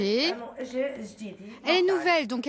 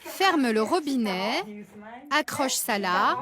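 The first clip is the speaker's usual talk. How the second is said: over enunciating; slower than usual. Real, not acted. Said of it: "lui parle comme à un enfant".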